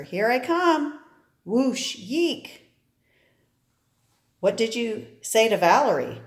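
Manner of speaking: lightly voiced excited girls in an ad; bubbly kids chasing cakes, half-hearted; cheery cartoon girls. Girls racing downhill for Twinkies, bright lightly voiced cheer.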